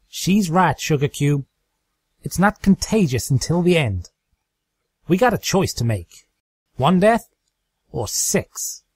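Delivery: Applejack's voice. Acted. Applejack backs Twilight on the grim choice, earnest. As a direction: state the hard choice plainly.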